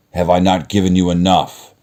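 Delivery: roaring beast. Acted. Beast roaring at the merchant caught stealing a rose. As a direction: roar it at the thief. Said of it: "roared the beast".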